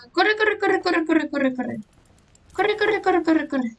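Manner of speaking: frantic repeated run, pitched high at start; panicked urging. Real, not acted. Gamer fleeing a threat in the game, panicked high urging. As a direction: urge yourself to flee in panic.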